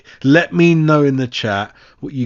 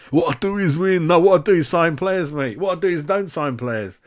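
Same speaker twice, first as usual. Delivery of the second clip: higher, cocky manager impression; a hammed-up, higher-pitched football boss; mock manager voice; 5 semitones higher than usual. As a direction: parrot the manager smugly. Mocking a manager's words.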